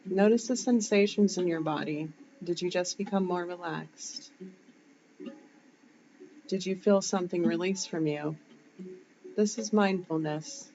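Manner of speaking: measured meditation guide with long pauses; calm cues spaced out with long silences; guided breathing meditation. Shown as a demonstration. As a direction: lead them through each breath, leaving room to breathe.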